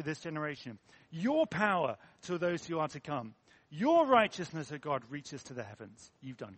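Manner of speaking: projected, emphatic prayer from scripture; earnest psalm reading. Acted. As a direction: proclaim it to God with conviction. Reads Psalm seventy-one aloud.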